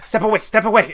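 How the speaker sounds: high, laughing shoo-away; laughing warning. Acted. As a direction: warn them off through a laugh. NPC shooing players back.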